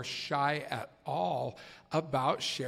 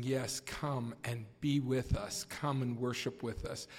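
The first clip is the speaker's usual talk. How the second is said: warm welcome. Retold or imitated. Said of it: "just welcoming that man and saying".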